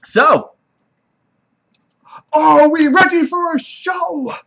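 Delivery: loud, high, slow showman's call; screaming to the crowd. Acted. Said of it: "He screams into the crowd".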